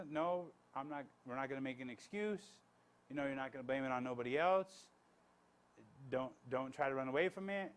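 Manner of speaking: low, even-voiced refusal; calmly enduring, quietly firm; calm, gentle firmness. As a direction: hold the line gently without raising your voice. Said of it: "I'm being calm, but I'm enduring".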